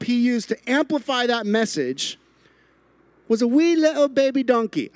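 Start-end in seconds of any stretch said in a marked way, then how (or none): 3.3-4.9 high cooing voice for a tiny donkey; cutesy baby talk. Pretend. Preacher coos to the crowd about a tiny donkey, high cutesy voice. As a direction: coo it like talking to a baby animal. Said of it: "I don't know why I just said it like that".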